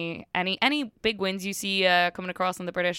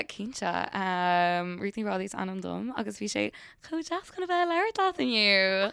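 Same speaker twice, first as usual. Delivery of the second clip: a short sample of spoken Irish for listeners; speaking Irish; slower than usual. Shown as a demonstration. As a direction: say it in fluent Irish, as a demonstration. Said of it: "say something in Irish".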